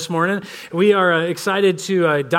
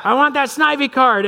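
imitating his son; 7 semitones higher than usual. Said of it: "And he's like".

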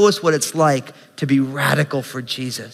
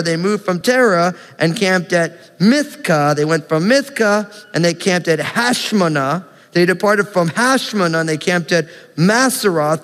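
brisk, even public Bible reading; reciting a long list, landing on each name; scripture reading; 4 semitones higher than usual. Acted. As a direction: read the list of place names out confidently. Reads scripture list of camps aloud.

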